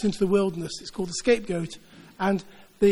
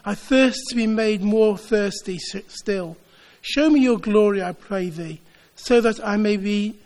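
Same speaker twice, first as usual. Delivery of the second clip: earnest prayer read out, lightly voiced; prayerful reading. Preacher reads Tozer's prayer to the congregation, prayerful. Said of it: "I wanted to quote it to you".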